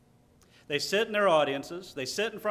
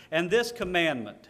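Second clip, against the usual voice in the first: commandment pressed firmly; preacher stressing commandment to the congregation; 3 semitones higher, 4 dB louder than usual. Retold or imitated. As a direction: lean hard on the word commandment. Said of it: "and I stress the word commandment".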